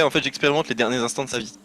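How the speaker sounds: hushed. Acted. Casting speak with dead.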